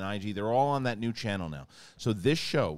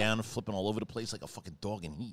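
real Queens speech; faster than usual. Retold or imitated. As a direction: tell a story the easy Queens way. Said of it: "as opposed to".

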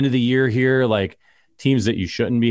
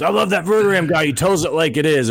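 mock fan praise; 5 semitones higher than usual.

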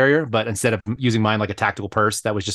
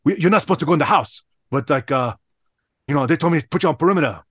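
imitating Lou's thick Chinese accent; retold in a put-on Chinese accent; 3 semitones higher than usual. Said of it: "he has the thickest Chinese accent".

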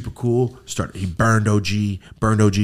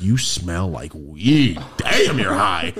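teasing; 5 semitones lower, much slower than usual. Retold or imitated. Teases the voice actor, acted out.

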